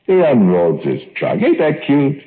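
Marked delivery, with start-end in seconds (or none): 1.4-2.2 high doting coo; higher, gleeful baby-talk coo. Acted. Doting on monster fly.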